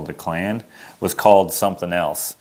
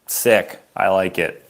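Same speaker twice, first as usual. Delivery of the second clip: put-on pitched-up childish delight; mock delight; 3 semitones higher, much slower than usual. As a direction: act thrilled at the two syllables like a kid. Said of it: "I was like".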